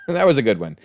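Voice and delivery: chuckling through the words; laughing. Real, not acted. Reviewer laughing at the costume joke, chuckling. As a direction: laugh as you repeat it.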